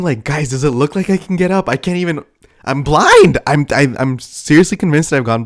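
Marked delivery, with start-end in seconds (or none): 0.2-3.4 high mock disbelief building to an outburst; exasperated protest. Exasperated inner protest while blind.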